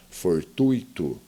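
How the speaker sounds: fortuito said for-TUI-to; ui as diphthong. Shown as a demonstration. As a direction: say fortuito with "ui" glided in one syllable. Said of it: "Duas vogais na mesma sílaba".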